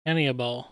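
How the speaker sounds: "Hannibal" as AN-ee-uh-bawl, the H dropped; alternative pronunciation. Shown as a demonstration. Wondering how they say it, "Hannibal" as AN-ee-uh-bawl. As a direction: say "Hannibal" in four syllables, ending in bawl. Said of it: "I wonder how they say it".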